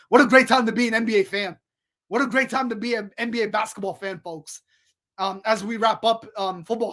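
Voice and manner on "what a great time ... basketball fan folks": fast, excited sports-fan gush; hyped up. Real, not acted. Host hyping up the NBA season for fans, excited. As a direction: let the hype carry the words. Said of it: "I was hyped up myself".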